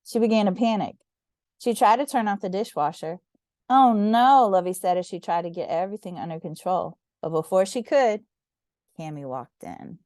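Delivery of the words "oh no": panicked oh no. A narrator's reading. Bubbles flood kitchen.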